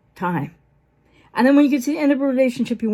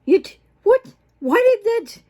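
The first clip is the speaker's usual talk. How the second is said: flustered disbelief; 9 semitones higher, 3 dB louder than usual. Retold or imitated. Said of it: "you're gonna be like".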